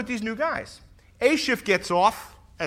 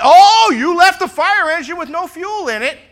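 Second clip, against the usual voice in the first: loud, high, whiny mock gripe; exaggerated whining accusation; mock complaining shout; 8 semitones higher, 13 dB louder than usual. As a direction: ham up the nitpicky complaint. Complaining B Shift quoted.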